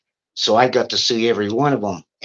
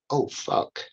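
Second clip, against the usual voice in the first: whispered, much softer; a scared whisper from the other inmates; hushed; 4 semitones higher, 8 dB quieter than usual. Retold or imitated. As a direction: breathe it out in dread.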